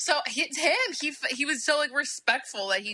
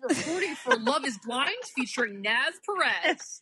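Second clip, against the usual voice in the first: news anchor voice; 2 semitones higher than usual. Pretend. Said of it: "he has such a news anchor voice".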